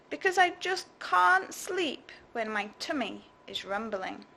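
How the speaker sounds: lightly voiced whiny creature. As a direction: complain like a greedy little creature. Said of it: "grumbled the thing".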